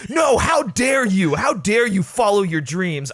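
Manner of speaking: high, loud mock outrage at someone's dreams; mocking Sonic. Mocking Sonic guilt-tripping James Marsden, hammed-up high shout. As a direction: ham up Sonic's indignant guilt trip. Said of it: "and you're like".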